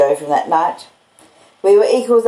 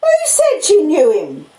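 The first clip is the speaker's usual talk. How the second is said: cried out; 4 semitones higher than usual. Acted. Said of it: "cried my sister".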